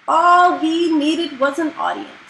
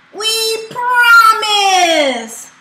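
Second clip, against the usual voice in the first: loud relieved promise; 9 semitones higher, 8 dB louder, much slower than usual. Acted. Dragon gives in to tickling.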